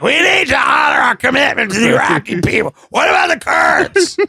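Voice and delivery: high-pitched hammed-up ranting shout; mock a coked-up political rant, shrieking high; coked-out screaming. Friends retell his drunken Iraq rant, mock screaming. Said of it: "You were just screaming".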